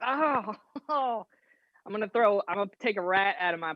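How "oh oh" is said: high, small pained moan; mock-wounded little cry; hurt "oh". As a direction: whimper lightly after a slap. Character slapped across the face.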